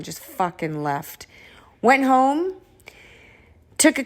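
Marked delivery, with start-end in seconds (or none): 0.0-1.3 soft, slow whisper. Real, not acted. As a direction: breathe it out quietly. Whispered end of move-out.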